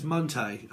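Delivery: "Munte" said as her catchword; her pronunciation. Retold or imitated. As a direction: imitate her way of saying "Munte". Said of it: "You know how she says".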